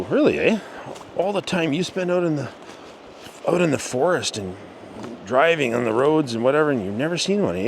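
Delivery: high, incredulous prodding; disbelieving. Retold or imitated. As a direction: press him, half amazed. Pressing friend in disbelief.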